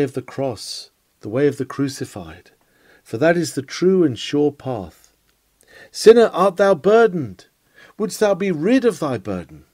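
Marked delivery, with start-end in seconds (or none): 5.9-9.6 raised, higher pleading call to the soul; preacher raising his voice to reach each troubled listener; fervent preaching call. Acted. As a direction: call out to the lost from the pulpit. Preacher calling out to sinner.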